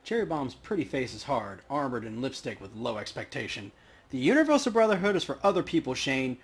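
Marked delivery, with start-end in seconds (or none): 4.1-6.4 fast, scornful barmaid brushing off her ex; a touch of contempt; dismissive bartender. Acted. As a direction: wave his cult away. Cherry dismisses Brotherhood.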